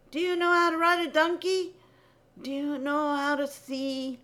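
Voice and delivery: mocking question.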